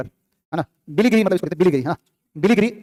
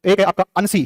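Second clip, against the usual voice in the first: slow emphatic; slower than usual. Shown as a demonstration. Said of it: "कौन सा पता है?".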